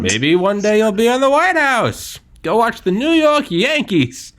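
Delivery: high, loud newsreel announcer; old-timey voice. Acted. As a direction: proclaim it like vintage propaganda. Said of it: "Old-timey voice".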